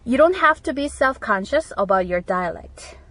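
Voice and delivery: slow, careful teacher read; deliberate classroom dictation; slow model reading. Shown as a demonstration. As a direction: read it out slowly for learners. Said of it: "라고 할 때".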